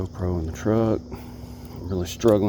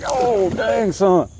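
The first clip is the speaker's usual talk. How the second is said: high, loud burst of surprise; startled whoop at the leaping fish; excited yelp; 10 semitones higher, 5 dB louder, much slower than usual. Real, not acted. Fish jumps out of water.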